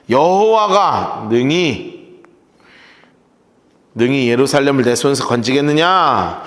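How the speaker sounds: 느리게 한 마디씩 강조; 핵심 구절을 천천히 새기듯; 천천히 되짚기. Shown as a demonstration. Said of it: "천천히 다시 읽기". (여호와가 능히 건지겠느냐를 느리게 또박또박)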